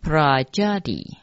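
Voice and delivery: Prajali with a blended "pra" onset; mantra pronunciation. Shown as a demonstration. Teacher showing how four characters are read, pronunciation demo. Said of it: "后面四个字念成".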